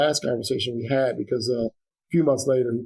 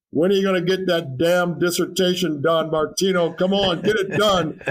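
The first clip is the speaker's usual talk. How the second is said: put-on light Jamaican accent, a little higher, pushing him to finish; teasing a student in a mild Jamaican accent; lightly done Jamaican mentor urging him on; Doctor Thompson's Jamaican accent; 5 semitones higher than usual. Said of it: "in his Jamaican, uh, accent".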